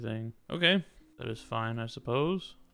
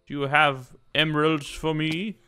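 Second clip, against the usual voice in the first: calling out; 4 semitones higher, 6 dB louder than usual. Real, not acted. Calling out to villagers.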